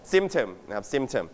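Symptom with the stress on SYM; stress on first syllable. Shown as a demonstration. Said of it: "You stress on the first syllable". (เน้นเสียงพยางค์แรกของ Symptom)

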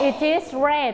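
"it is red" with the T run into is; linked sounds. Shown as a demonstration. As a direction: link it to is, as "i-tis red". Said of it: "เราจะลิงก์เสียงไปเจอ".

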